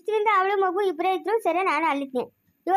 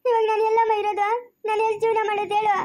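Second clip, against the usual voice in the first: higher, tearful wail of despair; crying; 4 semitones higher than usual. Acted. Abandoned wife crying to her aunt, higher tearful wail. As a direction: cry out where will I live now. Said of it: "ಅಳ್ಬೇಡ ಸುಮ್ನಿರು".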